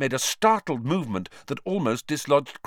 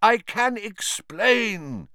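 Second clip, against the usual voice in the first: shouting; 11 semitones higher, 4 dB louder, much slower than usual. Acted. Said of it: "Lupin shouted".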